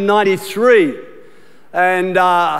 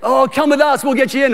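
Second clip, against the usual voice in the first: higher, eager American voice; imitating excited Americans; 4 semitones higher than usual. Pastor imitates Americans welcoming an Aussie, higher and eager. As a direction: play the thrilled host. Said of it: "imitating excited Americans".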